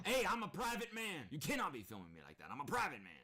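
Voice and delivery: high, loud indignant whine, then a fast rush; mock private man. Streamer mocking the family's privacy claim, indignant. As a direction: pretend outrage at being filmed. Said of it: "Smile for the camera, sweetie".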